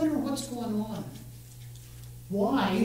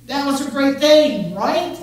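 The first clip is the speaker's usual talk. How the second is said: loud, high cheer over Peter's feat; rally the room with delight; excited; 5 semitones higher, 8 dB louder than usual. Real, not acted. Preacher hyping congregation.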